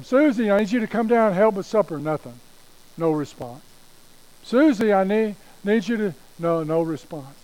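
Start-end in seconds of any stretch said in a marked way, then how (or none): 0.0-2.0 high mom's call upstairs. Acted. Mom calling Susie to help with supper, raised calling voice. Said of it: "Her mom calls her". 4.4-6.1 high, loud mom's call. Acted. Mom calling Susie a second time, raised calling voice. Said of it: "Her mom calls her".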